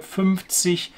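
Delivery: "fünfzig" with the z said as ts. Shown as a demonstration. Teacher shows the middle sound, "fünfzig" with ts. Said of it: "in the middle of a word".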